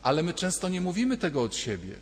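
normal talking voice

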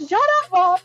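high, laughing mock snap; laughing retort. Daughter laughing at her mother's labor coaching, playful. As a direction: tell mom off through a laugh.

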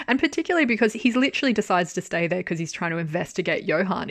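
ordinary talk

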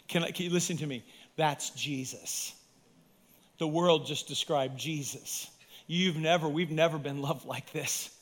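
hushed appeal. Real, not acted. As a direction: hush down and plead gently.

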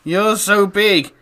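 slow and syrupy; hammed-up cutesy voice; cutesy baby voice. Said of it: "read these out in a voice".

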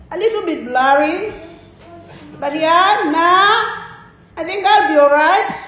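hesitant Aussie impression, rising ends. Preacher imitating an Aussie answering Jesus, Aussie accent. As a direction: imitate a laid-back, noncommittal Aussie reply. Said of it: "This is the reply of an Aussie".

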